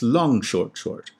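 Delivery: long short short spoken slowly, beat by beat; rhythmic demonstration. Shown as a demonstration. Lecturer demonstrating hexameter rhythm, slow and measured. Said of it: "basic underlying rhythm".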